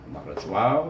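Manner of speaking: waw with rounded lips; over enunciating. Shown as a demonstration. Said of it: "ingat mulut".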